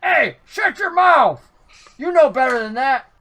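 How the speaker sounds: loud, high, slow bugbear bark; bugbear snapping. Acted. Bugbear silencing the halfling with a loud bark. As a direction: bark the order at the chatty halfling. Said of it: "the bugbear's like".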